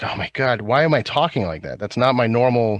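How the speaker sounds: ordinary talk, nothing marked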